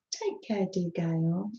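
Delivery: soft unvoiced whisper of care. Real, not acted. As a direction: breathe it gently to a sick friend. Tender whisper to unwell viewer.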